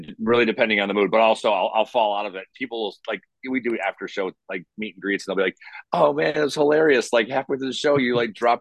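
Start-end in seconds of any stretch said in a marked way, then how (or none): 5.9-8.6 higher-pitched mock fan excitement; amused fan. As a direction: imitate a tickled fan, pitched up. Retelling fans teasing him afterward.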